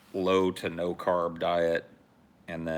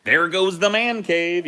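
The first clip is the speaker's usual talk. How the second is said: mock wail; 11 semitones higher, 9 dB louder, slower than usual. Mock lament.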